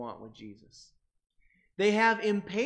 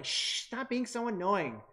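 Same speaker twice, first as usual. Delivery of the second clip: mean; 4 semitones higher than usual. Retold or imitated. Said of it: "it's even meaner than this".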